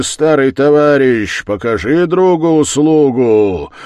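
rally himself, calling to his pistol; defiant shouting. Acted. Wounded husband calls for his old Turkish pistol, loud defiance. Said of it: "закричал он".

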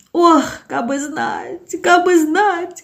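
slow, high wailing lament; drawn-out lament. Acted. Zinaida mourning the lost years, slow wailing lament. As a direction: moan it out in regret. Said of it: "качала головой Зинаида".

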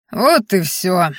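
a touch of ceremony; solemn announcement. A narrator's reading. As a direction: announce it grandly but briefly. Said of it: "объявила торжественно".

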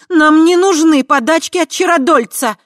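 high, loud sharp retort. A narrator's reading. Tai sharply refusing the sorcerer's handouts. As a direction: snap it back. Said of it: "резко произнесла Тай".

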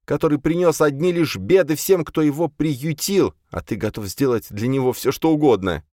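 high, loud indignant tirade; furious accusation. A narrator's reading. Jocasta to Virgil, raging against the ungrateful guest. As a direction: list his betrayals with venom.

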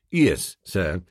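low, calm manservant; unruffled valet answer; low butler voice. A narrator's reading. Jeeves' repeated low reply.

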